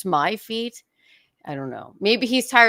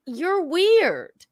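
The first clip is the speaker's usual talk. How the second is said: laughing retort; 8 semitones higher, 5 dB louder, slower than usual. Retold or imitated. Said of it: "I'm like".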